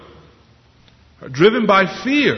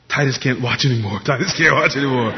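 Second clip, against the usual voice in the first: Titus; 3 semitones lower, faster than usual. Retold or imitated. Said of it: "Titus gets scared".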